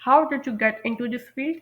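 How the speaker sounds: slow, rising question; slow model sentence. Shown as a demonstration. Teacher modelling a question slowly to learners. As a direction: ask it slowly for the class. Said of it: "या फिर आप पूछ सकते हैं".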